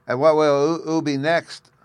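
put-on high, loud eager boy; child voice. A narrator's reading. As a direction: ask it like a curious child. Bruno child voice.

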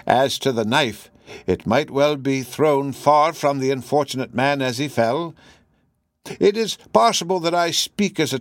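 lightly voiced professor, halting and musing; hesitant professor. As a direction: offer a theory with small hesitations, lightly in character.

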